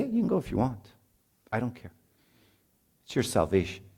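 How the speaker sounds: quiet guilt-trip, feigning indifference; mock passive-aggressive parent letting go; guilt-tripping. Shown as a demonstration. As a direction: back off softly but lay on guilt. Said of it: "Not like that. That's guilty".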